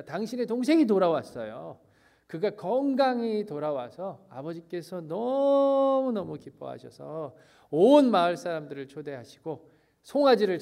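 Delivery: lightly acted glad report with stretched emphasis; joyful servant. Servant tells the elder son of his brother's return, mildly joyful. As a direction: share happy news, mildly excited. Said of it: "그 종이 기뻐하면서 얘기합니다".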